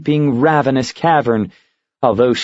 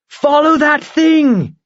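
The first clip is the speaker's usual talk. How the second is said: higher, slow urgent command; urgent heroine; slower than usual. Acted. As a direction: drive the eagle after the monster.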